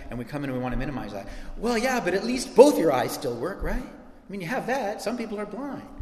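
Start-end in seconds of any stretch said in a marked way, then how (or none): 1.6-5.9 breezy dismissive pep talk, mocking; mock minimizing comfort. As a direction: brush off their pain, lightly mocked.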